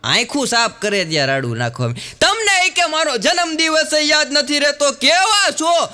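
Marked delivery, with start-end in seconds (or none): 2.2-5.9 high, loud nagging yell at the husband; shrill shouting wife. Retold or imitated. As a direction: scream it like a wife scolding at dawn. Wife yells at sleepy husband. (પતિ પર ઊંચા અવાજે બરાડતી પત્ની)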